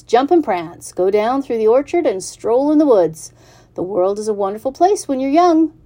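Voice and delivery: a giddy goose cheering on the pig; excited goose. Acted. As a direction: goose urging the pig to run free. Goose urges pig to roam.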